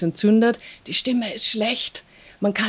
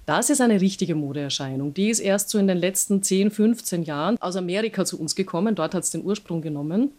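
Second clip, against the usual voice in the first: lower, creaky vocal fry voice; 3 semitones lower than usual. Shown as a demonstration. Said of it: "wenn ich so diesen Vocal Fry mache".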